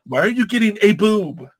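"a boob" with "a" picked out; stress on "a". Retold or imitated. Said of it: "They knew it was a boob".

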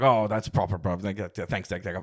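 mumbled imitation of London accent; thick London accent. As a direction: garble it in a mock London accent. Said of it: "his accent was so thick".

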